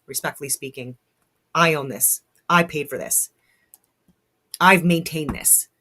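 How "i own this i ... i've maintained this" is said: firm, emphatic declarations with pauses between; fired up. Real, not acted. Homeowner defending their own house against a land claim, fired up. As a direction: state each claim forcefully, worked up. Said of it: "I get so fired up".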